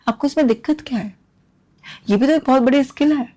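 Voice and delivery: exasperated challenge. Real, not acted. Vlogger challenging parents who stop son cooking, exasperated. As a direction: demand what the problem is.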